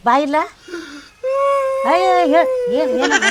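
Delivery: high, alarmed questions; high-pitched alarmed mother-in-law. Acted. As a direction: rush in worried about her son.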